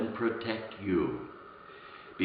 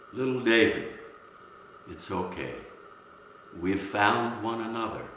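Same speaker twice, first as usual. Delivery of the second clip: comforting father; 2 semitones lower, 4 dB quieter than usual. Retold or imitated. Father to his found son, mildly acted reassurance. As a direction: soothe a frightened child, falling softly.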